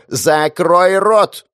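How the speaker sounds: slow, high, loud bellow; roaring boss shutting her up; furious shout. Acted. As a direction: slam the words down like a fist on the table.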